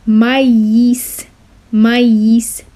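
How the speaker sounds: "Maïs" said as ma-is, two clear vowels; maïs pronounced ma-is; French loanword said clearly. Shown as a demonstration. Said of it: "it is pronounced like this".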